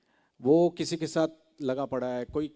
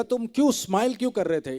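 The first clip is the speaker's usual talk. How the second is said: demanding producer; 8 semitones higher, 7 dB louder than usual. Retold or imitated. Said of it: "बोला".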